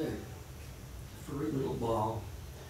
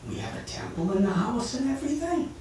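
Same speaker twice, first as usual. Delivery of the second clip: mother's gentle scolding; 4 semitones higher, 4 dB louder than usual. Acted. Mother scolds Nimai about puppy.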